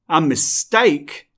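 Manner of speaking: roar. Acted. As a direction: roar the words back at him. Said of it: "Hades roars".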